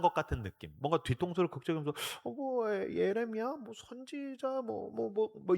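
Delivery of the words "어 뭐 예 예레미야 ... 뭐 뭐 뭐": soft, halting, higher-pitched fumbling; evasive mumbling. Acted. Disciples dodging Jesus' question, evasive mumbling. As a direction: fumble for an answer under your breath. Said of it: "얼버무린다라는 느낌을".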